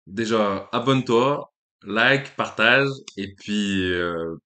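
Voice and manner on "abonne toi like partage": excited call. Real, not acted. Outro call to subscribe.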